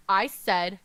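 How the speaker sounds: loud, furious yell at the attacker; screaming in rage. Acted. Prince screams defiance at White No Face, loud. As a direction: scream it with your whole being. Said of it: "screams in his loudest voice, yelling with his entire being".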